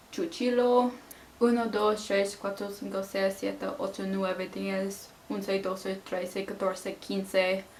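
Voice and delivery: choppy kitchen Spanish with an English accent; butchered Spanish. Shown as a demonstration. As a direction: rattle off broken restaurant Spanish. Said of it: "I just completely butchered the language".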